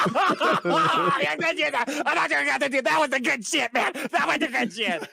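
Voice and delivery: hammed-up stoned kids; mock drunk. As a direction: slur it like you walked out drunk. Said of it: "like drunks".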